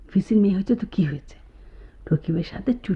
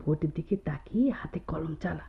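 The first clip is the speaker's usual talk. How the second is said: whisper; 8 dB quieter than usual. Acted. Friend whispers instructions while the teacher lectures, hushed whisper.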